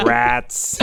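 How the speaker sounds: flat robotic Cylon voice. Acted. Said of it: "like a Cylon voice".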